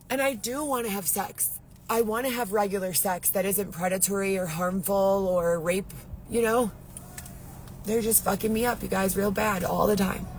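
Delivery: subdued. Real, not acted. Drops after outburst, confiding.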